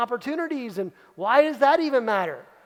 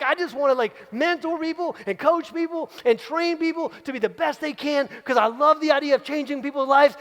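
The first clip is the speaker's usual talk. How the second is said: eager hygienist; 5 semitones higher than usual. Acted. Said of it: "you walk in and, like".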